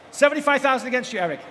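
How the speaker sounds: brisk rhythmic auction calling; auctioneer. Real, not acted. Live auction calling bids.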